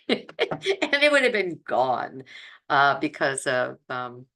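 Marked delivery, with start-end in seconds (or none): 0.1-2.2 higher, amused laugh through the words; laughing in disbelief at a near miss. Real, not acted. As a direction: let a laugh break into the line. Laughs at nearly losing her gallbladder.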